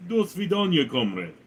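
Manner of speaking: lightly put-on Russian accent; a quick go at a Russian accent; playful hint of a Russian accent. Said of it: "Can we get Russian accent".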